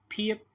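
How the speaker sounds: "फीएप" begun with a breath-released P; aspirated PH. Shown as a demonstration. Teacher naming the next consonant, "फीएप" with aspirated PH. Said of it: "पीएच कर लें".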